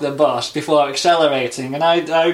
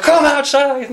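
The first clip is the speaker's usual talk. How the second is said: mock shout; 12 semitones higher, 4 dB louder, slower than usual. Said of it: "banging on the window like".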